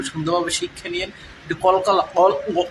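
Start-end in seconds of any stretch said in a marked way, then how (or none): 2.1-2.6 "অল" with a bouncing echo sound; qalqala demo. Shown as a demonstration. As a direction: bounce the final letter like an Arabic echo. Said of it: "এরম করে উচ্চারণ করেন".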